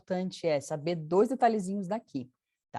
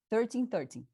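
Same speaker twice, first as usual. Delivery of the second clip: thirteen thirteen, both syllables even so they sound identical; no clear stress. Shown as a demonstration. Teacher showing how thirteen and thirty get confused, unstressed thirteen. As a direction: say thirteen twice with neither syllable punched. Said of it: "se eu não colocar essa sílaba tônica".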